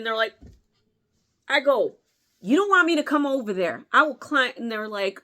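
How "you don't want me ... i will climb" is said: mock threat. Threatening the teens.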